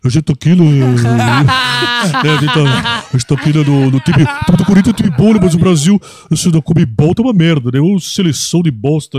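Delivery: mock commentator babbling; Galvão Bueno impression. Imitating the announcer for his friends, loud. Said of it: "zoando de Galvão".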